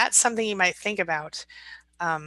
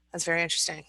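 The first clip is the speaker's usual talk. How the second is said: deadpan, no comeback; no expression; 4 dB quieter, much faster than usual. Shown as a demonstration. Showing how to answer a narcissist with no expression. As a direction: say it as if it doesn't touch you. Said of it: "respond like this".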